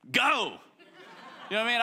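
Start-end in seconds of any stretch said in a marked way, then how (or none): 0.1-0.6 a sudden high, loud send-off; fired-up go. Retold or imitated. Elisha sending the prophets off, fired up. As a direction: launch them like a starting gun. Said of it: "Elisha's like".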